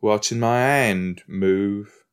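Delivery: slow, put-on British accent; random British accent. Imitating the actor from the show, generic British accent. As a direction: stretch the vowels in mock British. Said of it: "that's the thing about his accent. It is British".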